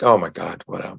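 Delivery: low, lazy voice through clenched teeth; through gritted teeth. Retold or imitated. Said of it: "talk through your teeth".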